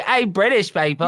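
half-hearted attempt at a British accent; clumsy bit of British accent; mimicked British accent. Shown as a demonstration. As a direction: lightly mimic British speech, badly. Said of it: "I can't do accents".

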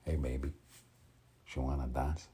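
lightly attempted Tony Montana Cuban accent; tentative Cuban-accented pickup line. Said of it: "still gotta work on the accent".

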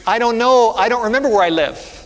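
high, loud mock-tearful little girl; crying little girl. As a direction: play an upset lost child. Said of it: "she was crying, and she said".

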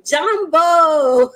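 loud, high, joyful Jambo; a bright called-out hello; exclaimed greeting. Real, not acted. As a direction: shout Jambo out with glee. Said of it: "I like saying Jambo".

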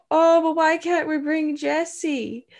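put-on high, slow child voice, Irish accent; little girl pleading, Irish accent. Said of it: "That was more Irish".

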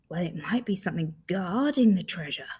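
hopeful half whisper. Acted. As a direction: whisper it with a little hope. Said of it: "said Rabbit hopefully".

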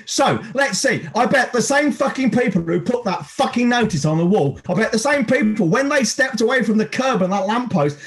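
high, hot ranting; angry rant. Acted. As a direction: vent furiously at them. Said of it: "the one minute hate".

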